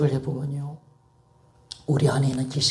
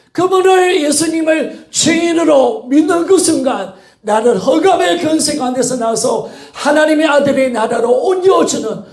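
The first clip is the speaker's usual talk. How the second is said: impassioned, raised-voice gospel proclamation; fervent preaching; 7 semitones higher, 6 dB louder than usual. Acted. Preacher urging believers to make Jesus their master, fervent preaching. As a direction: build each clause toward a ringing appeal.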